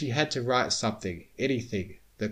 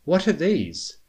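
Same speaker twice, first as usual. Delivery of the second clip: bewildered; 7 semitones higher, 6 dB louder than usual. A narrator's reading. Twilight bewildered by papers.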